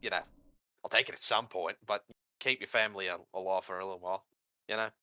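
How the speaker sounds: put-on imp with a wobbly Australian accent; sly devil in a shaky Australian accent. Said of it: "Did the guy start off English and then end up Australian?".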